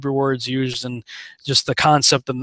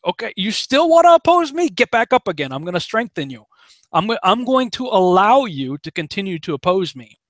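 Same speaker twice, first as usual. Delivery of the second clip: a teasing challenge, raised and playful; voicing God; 3 semitones higher than usual. God goads Pharaoh to keep fighting, playful mock voice. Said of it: "God's like".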